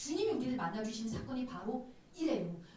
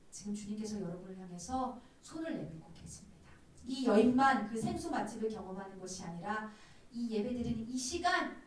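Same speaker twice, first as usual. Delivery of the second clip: ordinary talk, nothing marked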